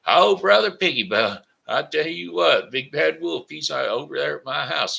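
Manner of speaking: high, loud piggy voice telling of the wolf; frightened little pig. Acted. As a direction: gasp it out as a scared little pig. Pig tells brother about wolf.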